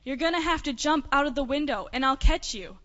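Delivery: a storyteller's understated father's call. Acted. Father to son at the burning window, mildly calling out. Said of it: "He cried out".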